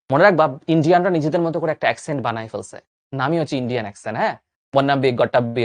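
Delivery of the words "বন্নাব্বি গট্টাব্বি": a light, mock Indian English accent. Teacher lightly mocks for students how Indians speak English, Indian accent. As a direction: bounce বন্নাব্বি গট্টাব্বি in a playful Indian accent. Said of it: "এরকম করে কথা বলে ওরা".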